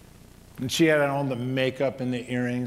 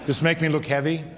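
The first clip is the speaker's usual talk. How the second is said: laughing; 3 semitones higher, 4 dB louder than usual. Retold or imitated. Wife teasing husband's loving gaze.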